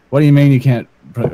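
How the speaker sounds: hammed-up Magnus quote; imitating Magnus. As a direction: rattle off the outraged line. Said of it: "how he said it made me just lose my shit".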